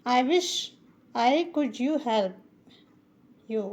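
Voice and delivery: "I wish I could help you" very slow, word by word; slow model sentence for beginners; slow teaching read. Shown as a demonstration. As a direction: dictation pace for learners. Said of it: "wish का मतलब होता है काश".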